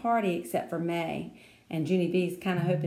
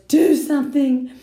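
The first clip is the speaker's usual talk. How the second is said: put-on loud, slow, higher old lady plea; urgent demand; 7 semitones higher, 11 dB louder than usual. A narrator's reading. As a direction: beg for help, alarmed. Nana demanding.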